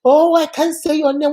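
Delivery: mildly exaggerated mock dismay; imitated cook. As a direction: play up being stumped by a name. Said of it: "the teacher, she will always".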